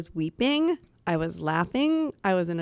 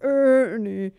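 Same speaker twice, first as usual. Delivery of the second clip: character voice; 3 semitones higher, 5 dB louder, much slower than usual. Acted. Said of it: "this huge range".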